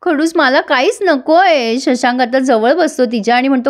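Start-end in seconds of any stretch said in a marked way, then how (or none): 0.0-1.8 mock-tearful plea, slow and higher. Wife crying to her husband at night: mild tearful. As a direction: voice a wife starting to cry, lightly. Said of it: "आता अप्पू रडायला लागते".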